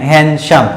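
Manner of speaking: हैंडसम said as "hen-shum"; silent D. Shown as a demonstration. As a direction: drop the d in हैंडसम for learners to repeat. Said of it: "आप भी उच्चारण करें".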